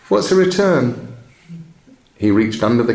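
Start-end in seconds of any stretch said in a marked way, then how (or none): 0.1-0.9 puzzled question. Acted. Shopkeeper's surprised question.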